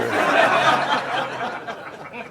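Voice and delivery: high amused laugh; a warm burst of laughter after the joke; real laugh. Real, not acted. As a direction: laugh at your own punchline. Teller laughs at own punchline.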